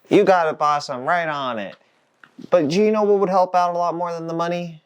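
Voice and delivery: eager to please, then angling; eager young worker. Acted. Eager worker answers his boss.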